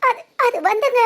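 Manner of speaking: tearful, halting start; crying. Acted. Woman tries to explain the trouble, crying. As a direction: falter through tears. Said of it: "ஏய், நீ அழுகாதடி".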